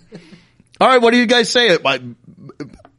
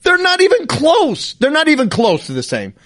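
much higher, strained, laughing protest; exasperated pleading; 12 semitones higher than usual. Retold or imitated. Son pleading with mom over glasses, high strained protest. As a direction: plead that it makes no sense. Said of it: "I'm like".

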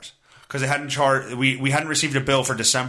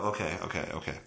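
whispered resignation; 10 semitones lower, 12 dB quieter, faster than usual. Real, not acted. Resigned giving up.

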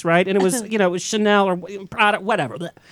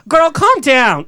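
sassy calm down; 5 semitones higher, 4 dB louder, slower than usual. Retold or imitated. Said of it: "So I said".

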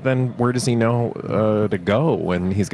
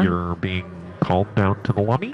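flat echoey PA page; 4 semitones lower than usual. Pretend. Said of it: "paging you".

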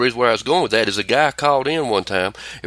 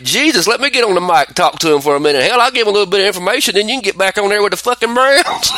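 exasperated; 7 semitones higher, 3 dB louder, faster than usual. Retold or imitated. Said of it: "I was like".

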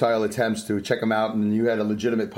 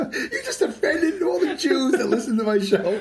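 high, slow words through real laughter; laughing; slower than usual. Real, not acted. Host laughing at guest's brisket gaffe. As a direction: accuse him while cracking up.

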